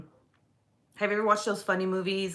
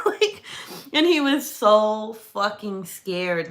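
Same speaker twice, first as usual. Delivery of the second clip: laughing; 4 dB louder, slower than usual. Real, not acted. Laughing while telling.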